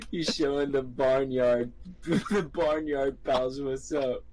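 slowly talking through laughter; laughing. Real, not acted. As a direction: say it while cracking up. Laughing while teasing.

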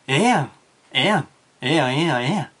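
ええやん in a bouncy Osaka accent; Osaka dialect. Shown as a demonstration. Teacher demonstrating the Osaka version, Osaka accent. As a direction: say it like a breezy Osakan. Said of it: "大阪弁では".

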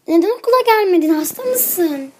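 high, fast and loud; eager question. Acted. Friend asking Pepper why she missed school, fast and high.

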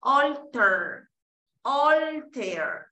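"Alter" with a long, stretched "Al"; lengthened syllable. Shown as a demonstration. Teacher modelling the long syllable, stretched "Alter". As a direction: hold the first vowel of "Alter", then the ending. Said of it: "esto es para alargar la sílaba".

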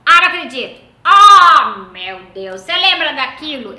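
loud, high, gushing greetings; thrilled to spot old friends; excited reunion. Retold or imitated. Mom greeting old acquaintances at a funeral, loud and gushing. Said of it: "Ela fala".

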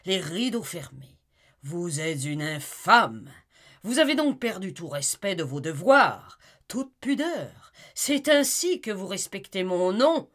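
loud, high, raging accusations; furious tirade. Acted. Jealous husband berating his wife Amy, in a loud furious rant. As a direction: hurl the insults at her. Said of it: "il était hideux de colère".

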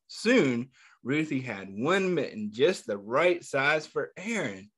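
put-on reading a picture book aloud to kids, a touch lively; story narration. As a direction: tell the story gently to a class of children. Teacher reads picture book aloud.

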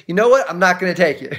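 acted parental exasperation; fed-up dad. Acted father fed up with questioning.

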